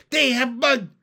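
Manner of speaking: high, loud froggy announcement; excited, high-pitched cry; gleeful shout. A narrator's reading. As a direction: shout the news with childlike glee. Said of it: "shouted Pin with glee".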